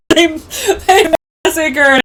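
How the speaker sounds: loud wail broken by laughter; laughing mock lament. Fan mourning her wrestler, laughing mock wail. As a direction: mourn the wrestler while cracking up. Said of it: "I'd be like".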